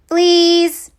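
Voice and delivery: bellowed, high and harsh; loud monster roar. Acted. Monster kid bellowing at the photographer. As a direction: shout it like a gross monster.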